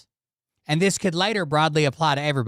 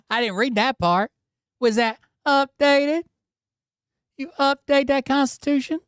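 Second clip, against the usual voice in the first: high-pitched, incredulous mock voice; mocking echo; 11 semitones higher than usual. Host mimicking a guest on the Constitution, high and mocking. Mockingly parrots the clip just played.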